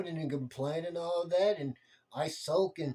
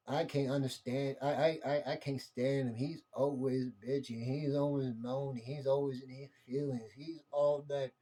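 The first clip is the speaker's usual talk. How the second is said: sulky griping, a hint of teeth-sucking; mock complaining; 2 semitones lower, 4 dB quieter than usual. Imitating someone griping about a moaning man, muttered. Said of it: "sucking your freaking teeth and like".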